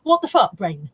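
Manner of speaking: fed-up rant about memory; exasperated rant. Real, not acted. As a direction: vent at your brain. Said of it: "bit of a rant".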